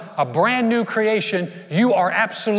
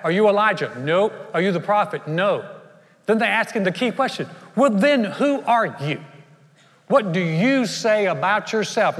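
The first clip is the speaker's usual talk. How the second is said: louder, pressing questions, last ones slowed; insistent questioning; 3 semitones higher, 3 dB louder than usual. Acted. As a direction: demand an answer, drawing it out. Priests question John, voiced.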